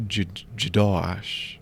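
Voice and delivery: Jadosh slowly, halting J- first; backwards speech. Shown as a demonstration. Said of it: "I don't know how I'm supposed to say that backwards".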